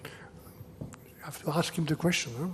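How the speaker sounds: unvoiced off-mic whisper to the side; whispered aside. Real, not acted. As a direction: drop to a breathy aside, as if not meant for the room.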